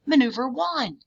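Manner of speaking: high loud yell of maneuver one; screamed command. A narrator's reading. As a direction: scream it in his face to make him run. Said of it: "scream directly into his face".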